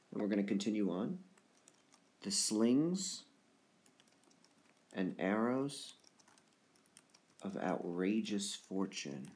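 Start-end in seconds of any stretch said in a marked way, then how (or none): 2.2-9.3 slow Shakespeare reading with long pauses; measured verse recitation. Acted. Teacher reads Hamlet's soliloquy to class, slow recitation. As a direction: read it out haltingly, trailing softer.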